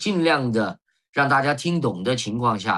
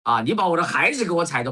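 higher-pitched imitation of a flustered mum; anxious mother; 5 semitones higher than usual. Mother to a bus passenger who stepped on her, imitated fluster. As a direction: mimic mum's urgent complaint in Sichuan-accented Mandarin. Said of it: "她就当时就着急了".

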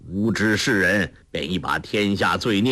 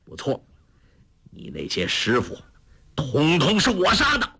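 cold sneer. Acted. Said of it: "黄药师冷笑道".

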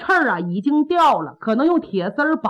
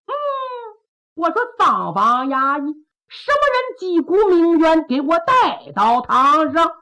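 odd official voice; 4 semitones higher than usual. Acted. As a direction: call down from the bench, lightly hammed. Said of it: "这声可怪别扭的". (县太爷拿腔拿调地喊，声音有点别扭)

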